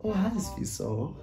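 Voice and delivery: suddenly soft, sweet-talking greeting; hushed flirty phone hello; changed tune. Retold or imitated. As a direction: drop to a very quiet coo. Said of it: "Now he changed the tune".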